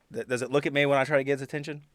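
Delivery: usual speaking voice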